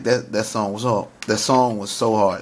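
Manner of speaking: excited stammer, repeating words; stuttering. Real, not acted. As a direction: trip over the words from excitement. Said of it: "Excuse me, I'm getting emotional. Y'all hear me stuttering".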